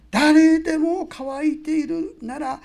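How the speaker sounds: loud, slow proclamation to the whole crowd; Jesus crying out loud. Retold or imitated. イエス様が祭りの群衆に大声で呼びかける、ゆっくりした叫び. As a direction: call out slowly so everyone hears. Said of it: "本当は大きな声で言った。".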